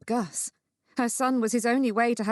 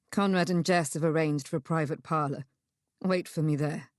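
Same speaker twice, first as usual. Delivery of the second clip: lightly voiced man, lower and steady; a hint of a lower male voice; measured male character; 4 semitones lower than usual. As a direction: explain calmly to hold someone back.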